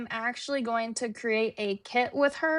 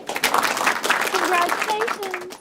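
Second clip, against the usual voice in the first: drawn-out congratulations; 7 semitones higher, 6 dB louder, much slower than usual. Real, not acted. Announces trivia winner.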